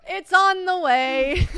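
high, loud, slow through laughter; laughing. Real, not acted. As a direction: squeal it out laughing. Cracking up.

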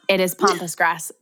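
"pampas" with an open ah, like pompous; ah-vowel pampas. Shown as a demonstration. Co-host insisting on their version, "pampas" as POM-pus. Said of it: "I'm pretty sure it's pronounced".

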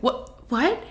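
mildly stunned, questioning what; retold baffled double-take; thrown off. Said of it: "I was so thrown off".

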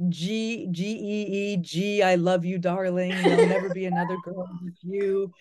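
put-on a touch of a lovestruck old-fashioned suitor, laughing through it; lightly hammed-up romantic letter voice; sappy love letter. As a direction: read Grandpa's love note with mock swooning. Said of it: "He writes out things like".

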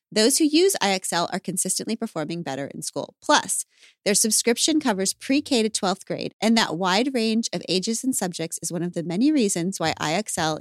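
brisk, measured sponsor read; podcast ad read. Real, not acted. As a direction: read the ad copy briskly and clearly. Reads a podcast ad.

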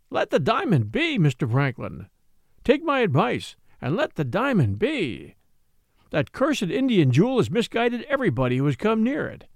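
a hint of an anxious old butler warning the young master; old servant Betteredge pleading. Old servant warns Franklin.

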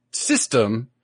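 usual speaking voice

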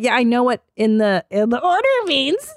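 sarcastic, pitch jumping up at the end; mock sarcasm at the operator. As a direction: scoff at the obvious advice. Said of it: "I was like".

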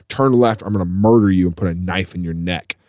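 controlled, matter-of-fact menace in retelling; suddenly sober threat. Retold or imitated. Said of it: "he just sobered up real quick".

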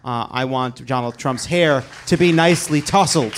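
mock whiny complaint. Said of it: "what they're really saying is".

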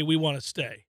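meek. Retold or imitated. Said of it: "He said it meekly".

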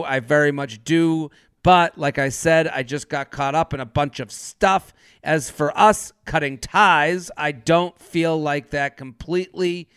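low, measured read of an apology; reading an apology text. Acted. Reads the man's apology texts aloud.

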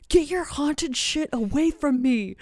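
husband playfully backing away from the ghost story; mock freaked-out husband. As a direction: toss it off like you're backing away from something cursed.

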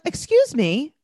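put-on high, slow teary child's question; imitating a little girl. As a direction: ask it like a crying four-year-old. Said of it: "she's like".

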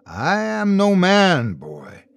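slow, otherworldly being; drawn-out ancient voice; slow creature voice. Acted. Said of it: "it said".

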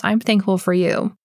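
heartfelt, said straight to her; mean every word of it; sincere thanks. Real, not acted. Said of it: "Well, Cindy Torts".

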